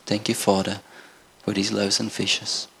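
soft, understated prayer of thanks; simple prayer. Acted. Jesus gives thanks for the loaves, simple soft prayer. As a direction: pray it softly and plainly, nothing grand. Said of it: "didn't even pray a super spiritual prayer".

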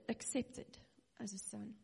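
whispered tenderness. Real, not acted. Preacher telling orphans they are accepted, whispered. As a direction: hush it like a gentle promise.

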